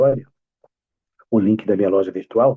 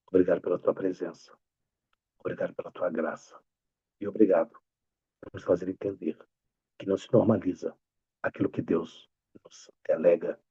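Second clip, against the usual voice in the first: prayer; 4 dB quieter than usual. Real, not acted. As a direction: pray softly and reverently, phrase by phrase. Faz uma oração. (oração pausada e reverente)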